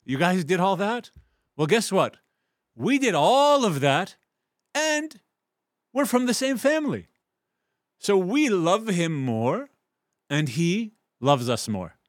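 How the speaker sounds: high, loud proud boast, slowing at the end; triumphant family bragging, drawn out. Acted. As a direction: crow over the rivals like a proud clan. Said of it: "they say".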